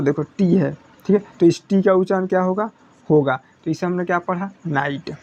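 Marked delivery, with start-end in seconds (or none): 4.7-5.1 नाइट said as "nait", gh left silent. Shown as a demonstration. Teacher modelling नाइट for students, gh silent. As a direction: say नाइट with no sound for gh. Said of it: "जीएच का उच्चारण नहीं होगा".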